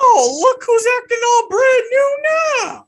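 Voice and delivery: high, loud ribbing; teasing shout. Real, not acted. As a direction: call him out loudly.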